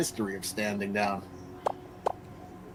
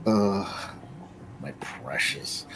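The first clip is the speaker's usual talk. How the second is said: low, slow, softer creepy creature croon; hiss-croon my precious like Gollum; 9 semitones lower, 6 dB quieter, much slower than usual. Pretend. Streamer mocking the woman, slow low Gollum croon.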